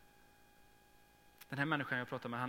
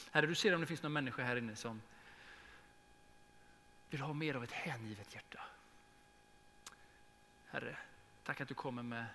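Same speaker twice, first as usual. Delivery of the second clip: earnest prayer to God over the congregation; fervent prayer. Acted. Pastor leading the closing prayer for the church, fervent prayer. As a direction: pray it warmly and steadily.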